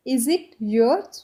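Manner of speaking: Is it yours, stretched slowly with a rise on yours; slow it right down so they can copy; very slow demo. Shown as a demonstration. Teacher slowly repeating the English question for students. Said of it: "इसको अब हम English में कैसे बोल सकते हैं".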